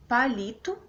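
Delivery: "palito", weight on li with a rising end; penultimate stress. Shown as a demonstration. Teacher giving an example of paroxytones, stressed on li in "palito". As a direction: stress the middle syllable of "palito". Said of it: "tá no li de palito".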